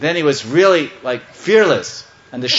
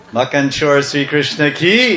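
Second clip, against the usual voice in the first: rallying call. Real, not acted. Preacher to congregation, praising Krishna, rallying call. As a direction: lead the crowd into a cheer.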